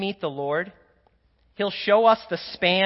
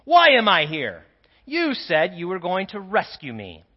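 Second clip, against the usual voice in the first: angry; 4 dB louder than usual. Acted. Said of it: "he said, angrily".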